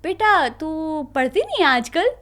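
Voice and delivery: slow, gentle imitation of a loving father; mock sweet fatherly ask; sweetly, like papa. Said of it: "इतने प्यार से कह रहे".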